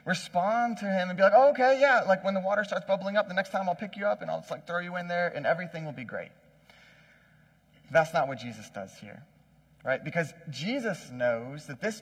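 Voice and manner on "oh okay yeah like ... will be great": nice-guy agreeableness. Acted. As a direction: play an obliging nice guy, rattling it off. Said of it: "if Jesus was a nice guy".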